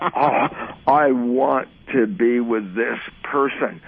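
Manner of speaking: slow, drawn-out longing; mock lovestruck. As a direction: linger dreamily on each word. Acted lovestruck thought before a date.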